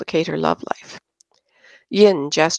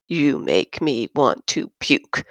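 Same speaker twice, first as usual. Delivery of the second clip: lower, slow disgust; 4 semitones lower than usual. Acted. Yin sneers at Christine, lower slow disgust. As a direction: draw it out in disgust.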